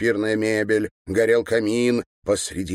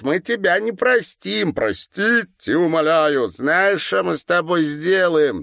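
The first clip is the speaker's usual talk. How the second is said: put-on high, louder girlish sneer; mocking girl; 10 semitones higher, 4 dB louder than usual. A narrator's reading. Girl poking the governor with a stick, high mocking sneer. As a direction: taunt him like a spiteful schoolgirl. Girl mocks his pleading.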